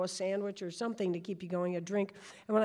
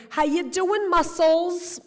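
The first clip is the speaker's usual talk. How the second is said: high, loud, playful catcall; Bette Midler; 9 semitones higher, 10 dB louder, slower than usual. Retold or imitated. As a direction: tease a passing runner, sassy and loud. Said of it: "Bette Midler lived in my neighborhood".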